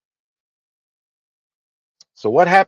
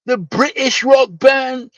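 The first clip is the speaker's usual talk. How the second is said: high, loud, drawn-out disbelief; incredulous shout; 12 semitones higher, 4 dB louder, slower than usual. Real, not acted. Streamer shouting at chat over Queen ban, incredulous. Repeats the question, far louder.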